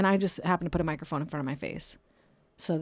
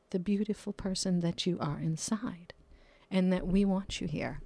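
tender whisper; 6 dB quieter than usual. Real, not acted. Tender affirmation to listeners.

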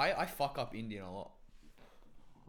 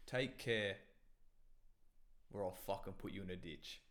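English accent; 4 semitones lower, 7 dB quieter than usual. Shown as a demonstration. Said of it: "could you do English?".

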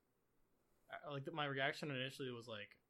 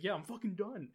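raised, louder fed-up outburst; retold frustration; 7 semitones higher, 8 dB louder than usual. Retelling a friend quitting mid-game, mock frustrated outburst. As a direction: imitate a friend who has had enough. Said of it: "he was getting really frustrated".

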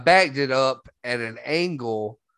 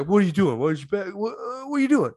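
quoting Addison; 7 semitones higher, faster than usual. Retold or imitated. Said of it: "And then Addison comes out there".

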